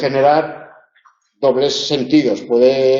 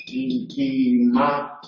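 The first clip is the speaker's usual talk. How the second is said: íntimamente slow and softer, broken as íntima, mente; split in two; 2 semitones lower, 5 dB quieter, much slower than usual. Shown as a demonstration. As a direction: spell out íntimamente as two separate words. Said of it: "tendríamos que escribir así".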